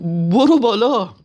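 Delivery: the king toys with the terrified driver, slow and loud; Reza Shah's bully voice. Retold or imitated. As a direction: stretch the command out like a smug strongman. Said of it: "با همون حالت توناژ صدای رضاخانی".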